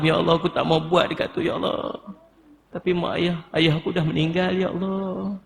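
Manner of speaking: demonstrated grieving plea, voice rising and sinking; sorrowful, imploring prayer with fading line ends; pleading with God. Shown as a demonstration. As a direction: mourn a father in prayer, stretching "ya Allah". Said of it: "Minta merayu dengan Allah".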